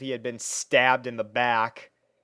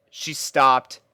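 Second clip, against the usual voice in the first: ordinary delivery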